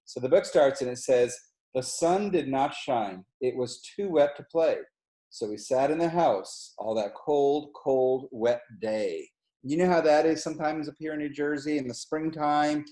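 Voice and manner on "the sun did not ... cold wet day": slow storybook reading voice; unhurried read-aloud for kids; reading to children. A narrator's reading. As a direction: read it slowly like a bedtime book. Reads story text aloud.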